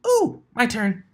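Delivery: high, loud delighted cry; giddy high-pitched shout; excited squeal. Acted. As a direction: burst out with glee. Pink pony rushes to door.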